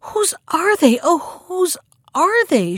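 high-pitched, eager delight without shouting; joyful exclamation. A narrator's reading. Helga thrilled at the sight of the horses, high joyful cry. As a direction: ask in rising wonder, stretching the repeated question out slowly. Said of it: "with a shriek of joy".

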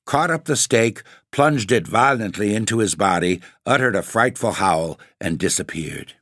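animated, lilting storybook reading; story narration. A narrator's reading. Narrator telling listeners the Baron of Grogzwig's tale, story narration. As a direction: read the tale aloud with lively rise and fall.

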